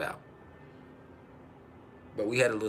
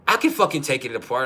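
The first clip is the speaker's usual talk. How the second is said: retold defiant insistence; 3 semitones higher, 6 dB louder than usual. Retold argument over car starter.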